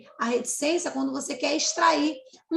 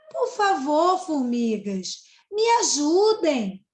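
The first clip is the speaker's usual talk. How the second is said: lightly voiced pleading cicada, a touch louder; 3 dB louder, slower than usual. Teacher reading the cicada's plea to the ants, lightly pleading. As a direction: beg the ants for help, mildly. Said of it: "A cigarra vai falar".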